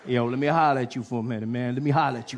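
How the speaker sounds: cool African American guy saying hey yo; African American accent. Retold or imitated. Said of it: "was like".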